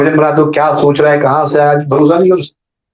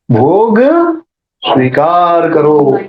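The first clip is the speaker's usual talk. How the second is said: slow, drawn-out invocation; prayerful offering; much slower than usual. Retold or imitated. Brahmin offering food to his deity, prayerful. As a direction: stretch the words like a ritual offering.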